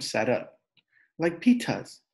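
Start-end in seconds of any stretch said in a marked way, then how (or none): 1.2-2.0 put-on toddler voice. A narrator's reading.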